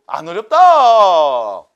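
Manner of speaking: very loud, long-drawn shout; exaggerated cheer. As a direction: holler it slowly, stretching the last syllable. Repeats the mock cheer.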